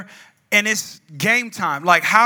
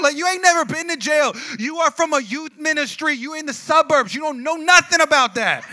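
high, incredulous telling-off; exasperated retort; 5 semitones higher, 3 dB louder than usual. Retold or imitated. Teen to suburban friend, exasperated retort. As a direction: put a posturing friend in his place. Retells mocking friend's tough talk.

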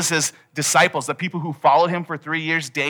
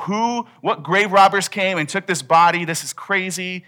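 panicked women; 4 semitones higher, 3 dB louder than usual. Retold or imitated. Women panicking at empty tomb.

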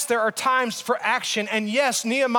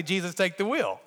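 quieter, dry and sarcastic plea; 4 semitones lower, 4 dB quieter than usual. Retold or imitated. Preacher mocking the emergency prayer, quietly sarcastic. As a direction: toss the prayer off with mock sarcasm. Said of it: "I said sarcastically".

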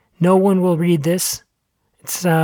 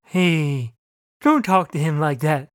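squirrel voice; slower than usual. A narrator's reading. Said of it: "said the squirrel".

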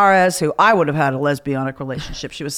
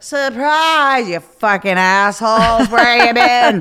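mock angry yell; 4 semitones higher, 4 dB louder, slower than usual. Drunk friends yelling at late arrival.

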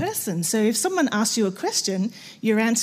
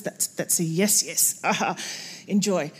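low, soft aha; murmuring to yourself, pleased; mock quiet realisation; 5 semitones lower, 5 dB quieter than usual. Server realising the guest means yes, quiet aha. Inner voice recognising cue.

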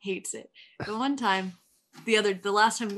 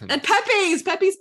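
higher-pitched mock New York accent; 10 semitones higher, 4 dB louder than usual. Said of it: "I could do a New York accent".

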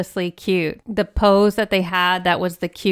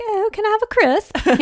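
high, hammed-up British accent; mock posh British accent, laughing; 12 semitones higher than usual. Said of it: "make fun of them".

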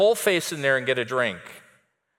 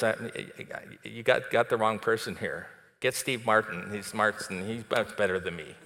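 softer, lower, shrinking and unsure; timid Gideon; 4 semitones lower, 6 dB quieter than usual. Acted. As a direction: back away from the call, hesitant. Gideon pleads he's the wrong person.

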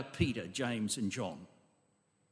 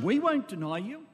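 higher-pitched, insistent promise; emphatic echoed vow; 5 semitones higher, 3 dB louder than usual. Acted. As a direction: echo the pledge as the other disciples. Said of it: "they all said exactly the same".

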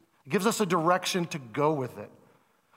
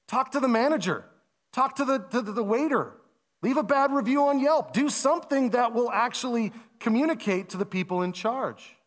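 exasperated advice; 5 semitones higher than usual. Retold or imitated. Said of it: "And we would say".

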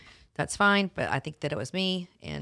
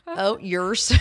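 laughing; 3 semitones higher, 7 dB louder than usual. Acted. Mother mimics the accent, laughing.

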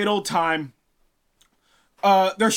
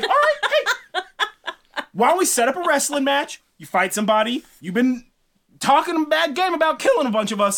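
mocking giants; 6 semitones higher than usual. Giants mock Thor, laughing.

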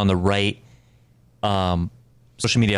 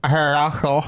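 pterodactyl screech; 5 semitones higher than usual. Shown as a demonstration. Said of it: "make a pterodactyl noise".

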